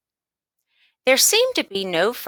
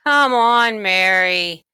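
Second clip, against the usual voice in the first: sharp, louder call to his sister; a little cross; 6 dB louder, slower than usual. Acted. Boy hurrying his sister out of the bathroom, mildly cross. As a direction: hurry her up, mildly annoyed. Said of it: "he said a little crossly".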